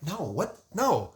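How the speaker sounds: high, loud panicked protest; panicked yelling. Retold or imitated. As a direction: imitate a frantic friend begging him to stop. Corey panicking as Bryce signs.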